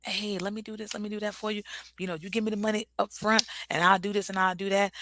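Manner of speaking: a hint of a hustler spitting game; con artist pitch. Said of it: "You got con artists out here".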